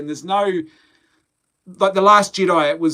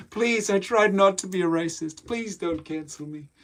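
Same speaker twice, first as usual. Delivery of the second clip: mock pleading; 3 semitones higher than usual. Vlogger answering a racism jibe, mock pleading. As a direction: plead in jest, slowing and softening at the end.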